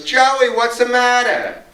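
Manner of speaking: slow, high, drawn-out question; imitated concerned call. Marcia heading straight for the kid, imitated concerned call. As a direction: stretch it out like a fussing drag queen.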